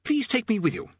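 high, halting plea; pleading prisoner. A narrator's reading. Unseen prisoner begging Rincewind not to leave, halting plea.

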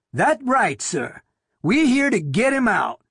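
nervous thin man, rasp it out. A narrator's reading. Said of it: "said in a rasping voice".

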